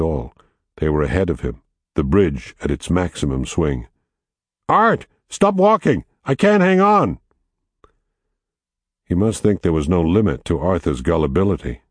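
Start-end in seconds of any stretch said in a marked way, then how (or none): 4.7-7.2 frightened cry. Acted. Jake hanging, calling for help.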